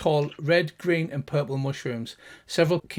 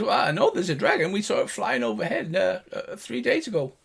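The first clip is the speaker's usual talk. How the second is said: high, fast gnome voice; gnome guard; 5 semitones higher than usual. Acted. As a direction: shrug it off. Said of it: "He says".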